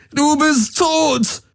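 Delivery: sehr hoch, langsam, Betonung auf bist; „bist“ gedehnt herausgeweint; weinend, gedehnt. A narrator's reading. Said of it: "schrie Galen, weinend und zitternd". (verzweifelt gedehnter Schrei)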